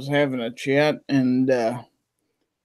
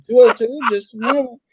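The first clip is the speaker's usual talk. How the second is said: higher, polite switchboard voice; hotel operator; 7 semitones higher than usual. Retold or imitated. Hotel gal answering the call, polite higher voice. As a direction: answer the phone like a desk clerk. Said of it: "And the gal said".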